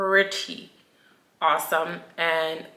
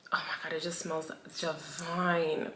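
whisper; 10 dB quieter than usual. Real, not acted. Whispering over a product.

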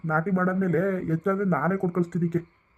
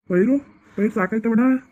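raised voice, pitched up to carry across the field; calling out; 4 semitones higher, 6 dB louder than usual. Acted. Young farmer calls across the paddy to the neighbour, loud call.

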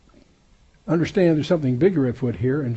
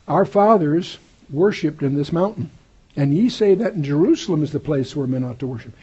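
raised, emphatic reading of scripture; 4 dB louder than usual. Acted. Preacher reads the Bible aloud to his class, raised and emphatic. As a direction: proclaim the verse to the congregation.

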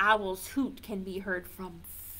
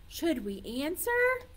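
ordinary talk

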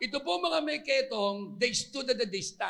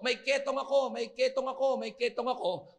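half-hearted retold shout; mock calling out; 3 semitones higher than usual. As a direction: call it out like a leper warning passersby. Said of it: "kailangan nilang sumigaw ng ganito".

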